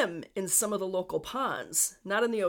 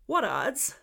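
raised, amateur Newfoundland lilt; Newfie accent; 5 semitones higher, 4 dB louder than usual. Shown as a demonstration. Podcaster demonstrating local phrases for listeners, attempted Newfie accent. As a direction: have a playful go at a Newfie accent. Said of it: "trying to do a Newfie accent".

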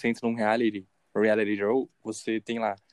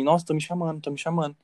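mildly startled, higher-pitched quote; retold fright; 4 semitones higher than usual. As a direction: imitate someone alarmed, lightly. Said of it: "levanta muito assustada e falando assim".

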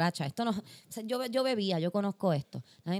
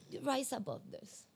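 slow, soft self-coaching with a laugh; calm yourself down mid-set; slow, hushed self-encouragement; mock inner pep talk; 5 semitones higher, 5 dB quieter, slower than usual.

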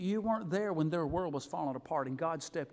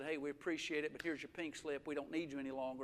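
subdued dismissal; 5 semitones lower, 10 dB quieter than usual. Retold or imitated. Boss firing a worker, retold.

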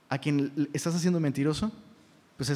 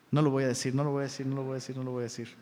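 low mutter fading softer with each repeat; muttered self-restraint; 4 semitones lower, 6 dB quieter, much faster than usual. Pretend. Pastor holding back a hard word, muttering to himself. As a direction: talk yourself out of it under your breath.

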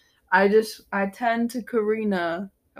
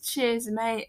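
imitated British kid; 3 semitones higher, 5 dB quieter than usual. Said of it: "He goes".

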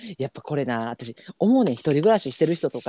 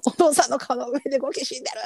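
retold call; 8 semitones higher than usual. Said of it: "叫び声".

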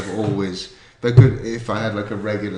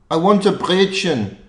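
put-on high, loud Scottish accent; a scruffy Scottish man demanding; 10 semitones higher, 8 dB louder than usual. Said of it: "I'm gonna do a Scottish accent".

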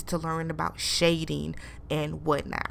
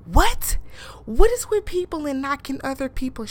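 shocked; 6 semitones higher, 6 dB louder than usual. Real, not acted. Shocked reaction.

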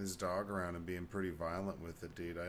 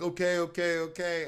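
high, loud panicky okay okay okay; imitating a scared kid pleading to be left alone; mock frightened okays; 7 semitones higher, 10 dB louder than usual. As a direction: play the cowering kid backing off fast. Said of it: "and was going like".

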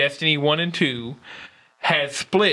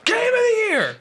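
booming hyped announcer call, pitched way up; fighting game announcer. Retold or imitated. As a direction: yell it like a Smash Bros announcer. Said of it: "that Smash Brothers announcer voice".

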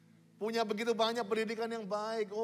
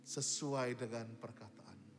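soft surrendered prayer; 7 semitones lower, 11 dB quieter than usual. Shown as a demonstration. Preacher models a quiet prayer of surrender for the congregation. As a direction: pray it softly, giving yourself up. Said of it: "tapi berkata".

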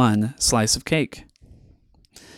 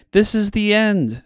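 much higher, panicked cry; mock panic; 10 semitones higher than usual. A narrator's reading. Everyone in the streets cries out in mock panic. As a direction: wail like the world is ending. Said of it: "shouted everyone".

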